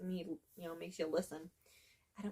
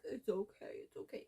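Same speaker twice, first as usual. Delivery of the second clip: mock soothing; 7 dB quieter than usual. Mimics soothing a bad friend.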